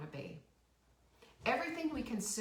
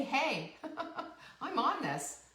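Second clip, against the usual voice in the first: mock eager; 6 semitones higher than usual. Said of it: "You have to just say".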